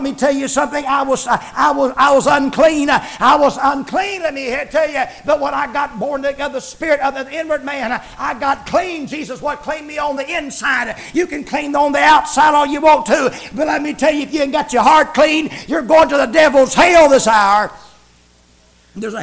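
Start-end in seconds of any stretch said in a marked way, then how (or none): 1.6-4.2 preaching shout. Acted. 11.1-17.7 louder, driving hellfire warning; preaching shout. Acted. Preacher warning sinners of hell, shouting.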